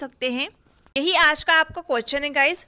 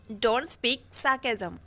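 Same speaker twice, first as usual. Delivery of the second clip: extremely slow, softer echo; slow soft repeat; much slower than usual. Shown as a demonstration. Teacher echoing the phrase softly for students. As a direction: repeat it quietly and slowly. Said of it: "अनाप शनाप मत बोला करो".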